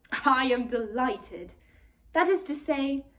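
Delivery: a fussy, polite faun greeting; lightly voiced faun, eager.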